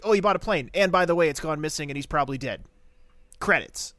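loud sarcastic mock announcement; mocking writers. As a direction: blurt it out like a lazy writer. Mocking the writers' rushed plot.

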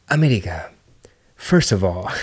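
whispered, mock-menacing opener. Quoting China to the Americans, a mock whisper. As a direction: hiss it like a secret warning. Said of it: "They were like".

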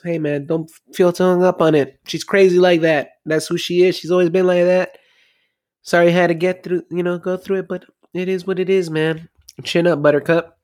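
lightly voiced owner patting him on the back; consoling cousin. Snack bar owner consoling cop.

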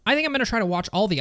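light mock take of a friend's voice; Nick impression. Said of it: "let me do my best Nick impression".

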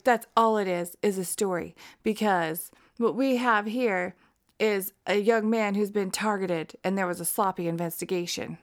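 lightly voiced defense lawyer. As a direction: argue it like a courtroom lawyer. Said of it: "That's my best lawyer voice".

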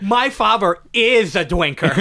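put-on slow baby-talk Joker lisp; lightly voiced baby Joker. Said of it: "Baby Joker".

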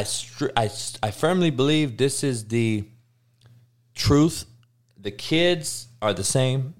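ordinary talk

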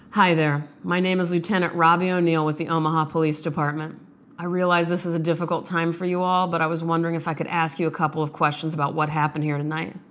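a lightly voiced sombre detective; calm, official condolence call to a grieving family. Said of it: "practicing that moment when a detective has to talk".

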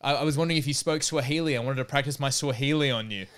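bouncer flustered explaining to the comedian; flustered bouncer backpedalling. Retold or imitated. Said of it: "the guy has, like".

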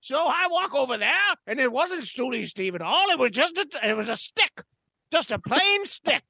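lightly voiced pompous gent; a hint of a stuffy gentleman; pompous storyteller. Holds a pompous character voice.

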